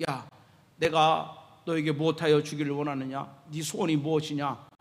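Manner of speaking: lightly voiced lord addressing a beggar; voicing Jesus's question. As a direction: ask as Jesus, low and composed. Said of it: "다가가서 물어보는 거예요".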